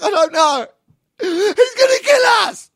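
high, loud, tearful shriek; drawn-out panicked scream down the phone; terrified wail. Retold or imitated. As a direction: cry out in hammed-up terror. Acted panicked emergency call.

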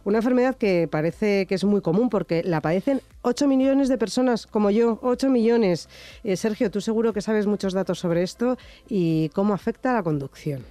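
stuffy duck voice from allergies; blocked nose, congested duck voice. Real, not acted. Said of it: "por eso tengo esta voz de pato hoy".

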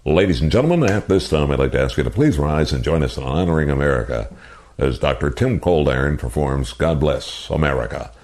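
a lightly done arena announcer call; PA announcer impression. To Gary May, a light impression of his anthem announcement. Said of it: "I'm gonna do my impersonation of you".

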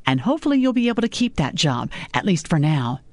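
a hint of a scolding mother; mother lecturing her daughter about men. Mother's jab.

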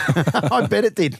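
chuckling through the words; laughing. Real, not acted. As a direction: laugh while you say it. Laughs at bank account joke.

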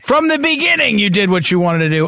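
hint of an exasperated spouse; mock nagging wife. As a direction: hammer "from the beginning" as a playful complaint. Voices future wife's scolding, teasing.

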